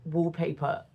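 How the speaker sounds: mildly upset with yourself, pitch jumping up; upset, exasperated. Real, not acted. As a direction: complain in baffled dismay at your own mistake. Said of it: "Now I've upset myself".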